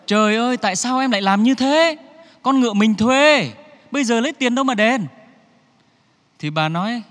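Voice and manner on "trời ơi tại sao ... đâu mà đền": hốt hoảng kêu trời. Acted. Chồng hoảng hốt trách vợ.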